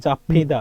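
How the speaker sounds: "জাফিদা" as jap-phi-da; ph sound. Shown as a demonstration. Teacher shows how the letters merge, ph sound. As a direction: say "জাফিদা" with an aspirated ph in the middle. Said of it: "ফর মতো উচ্চারণ হয়ে যাবে".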